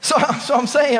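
ordinary talk, nothing marked

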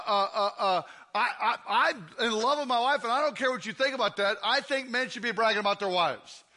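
ordinary talk

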